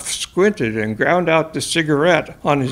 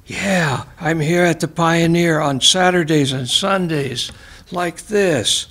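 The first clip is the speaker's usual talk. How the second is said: lightly voiced odd patient, higher; Alphonse voice; 4 semitones higher than usual. Narrator voicing the patient Alphonse to Sterling, lightly higher.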